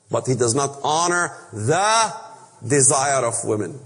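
preacher leaning on the little word the, pitch sinking at the end; stress on the. Shown as a demonstration. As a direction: lean on the in the desire of women. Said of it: "How much did the "the" make a difference?".

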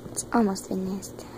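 unvoiced whisper to herself. Real, not acted. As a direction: mutter it under your breath. Whispered aside.

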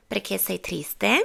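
"triste" lifted at the end, slowly; rising question tune. Shown as a demonstration. Teacher shows students how an Italian question ends, rising. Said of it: "ขึ้นเสียงสูงจบ".

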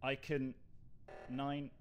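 low, soft self-talk; muttering to oneself. Real, not acted. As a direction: think aloud under the breath, low and hushed. Mutters to herself alone while playing.

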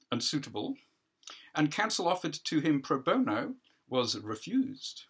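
lightly voiced judge letting the audience in; judge aside.

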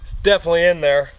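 hammed-up eager detectorist; eager treasure hunter. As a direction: act the cocky treasure hunter. Acted reenactment, detectorist searching.

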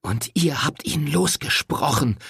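a mild hiss of hatred; understated hateful hiss. A narrator's reading. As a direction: spit it out through her teeth. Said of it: "zischte sie schließlich voller Hass".

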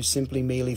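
"Mealy" said as one run-together word, like meal plus -y; mispronounced name. Shown as a demonstration. Host teasing a viewer by mangling her name. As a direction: blur "Me Ali" into a single word "Mealy". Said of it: "I would have called you".

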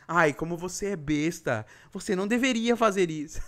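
put-on a bored emo girl who looks down on everyone; emo teen voice. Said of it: "adolescente que gosta de Evanescence".

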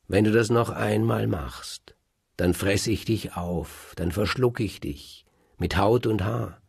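loud, menacing warning; menacing threat. Acted. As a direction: threaten to eat him whole. Faust threatens to devour Kaspar.

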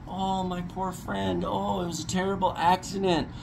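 hammed-up sorrowful sighing; mocking Tucker Gott. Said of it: "Tucker Gott".

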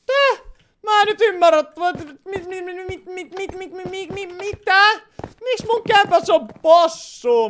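very high, loud stammering disbelief; stuck on the word, utterly baffled; baffled shock. Real, not acted. Still baffled by the pig. (ällistynyt, korkea änkyttävä epäusko)

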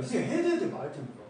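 헷갈린 학생 흉내. Retold or imitated. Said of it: "애들이 제일 헷갈려하는".

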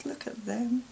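soft whisper, rising in delight; cooing whisper. Real, not acted. Marvelling at teeny tiny flowers, cooing whisper. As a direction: whisper over something tiny and sweet.

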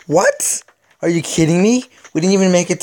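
outraged disbelief. Real, not acted. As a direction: shoot up in pitch, can't believe it. Shocked at bad odds.

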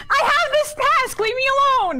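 laughing. Real, not acted. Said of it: "Did you hear the smile in her little voice".

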